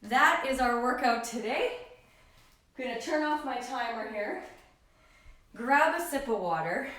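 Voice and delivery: talking out of breath after jump lunges; breathless between words. Real, not acted. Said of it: "'cause I'm out of breath".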